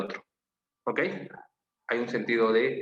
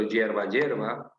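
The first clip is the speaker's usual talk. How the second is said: "hierba, hierba" muy despacio, cada sílaba marcada; pronunciación lenta; much slower than usual. Shown as a demonstration. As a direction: deletrea con la voz "hierba" dos veces, lento. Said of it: "Parecida escritura también". (muestra a la clase "hierba, hierba" sin prisa)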